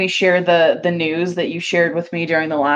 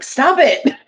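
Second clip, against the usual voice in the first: high, raised retort; mock scolding; 9 semitones higher, 3 dB louder than usual. Acted scolding of voice assistant.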